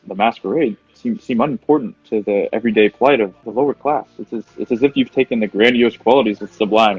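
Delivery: lightly voiced lofty art critic; pompous art critic voice. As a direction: gush art jargon grandly. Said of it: "mouthing all these art terms".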